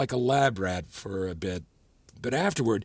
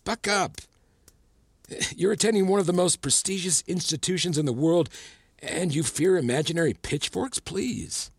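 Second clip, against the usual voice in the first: higher-pitched, exasperated pep talk; dismissive scolding; 5 semitones higher than usual. Acted. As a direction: briskly scold a student out of their fears. Professor dismisses student's fear, scolding.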